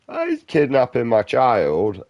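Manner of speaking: high, loud, slow mock scream of a panicked mother; hammed-up frantic mother yelling; frantic mum. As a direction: wail it like a desperate mum.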